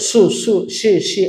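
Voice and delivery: "সু, শি" with added oo and ee vowels; short vowelled syllables "সু, সু, শি, শি" instead of a bare hiss; wrong pronunciation demo. Shown as a demonstration. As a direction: show the mistake, voicing "সু" and "শি" as syllables. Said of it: "এরকম করা যাবে না".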